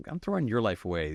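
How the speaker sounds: lightly mocking, tossing the line back at him; a cheeky teen retorting to his father; defiant comeback. Son sassing back at his dad, lightly mocking. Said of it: "And I was like".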